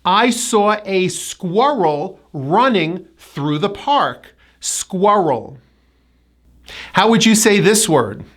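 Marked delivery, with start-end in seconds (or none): 0.0-4.4 slow example, squirrel as SKWUR-rul; spaced phrases, careful squirrel; strong W and R. Shown as a demonstration. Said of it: "strong hidden W sound in this word". 4.6-5.6 Squirrel as SKWUR-rul; two careful syllables in Squirrel; strong W and R. Shown as a demonstration. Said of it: "strong hidden W sound in this word".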